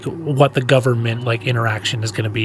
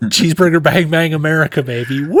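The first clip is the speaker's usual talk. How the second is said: quick, higher hammed-up American whoop; mock patriotic cheer; 4 semitones higher, faster than usual. Hamming up America for a co-host, mock cheer. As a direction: rattle it off, then a long high woo.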